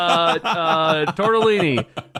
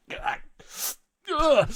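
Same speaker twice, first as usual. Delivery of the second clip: zombie groan; 11 semitones higher than usual. Retold or imitated. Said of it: "like a little zombie hand".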